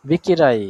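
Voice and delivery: "বেকেরাই" loud, with a long ee at the end; demonstrated pronunciation. Shown as a demonstration. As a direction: model "বেকেরাই" firmly, stretching the ending. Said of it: "উচ্চারণ করার জন্য ই".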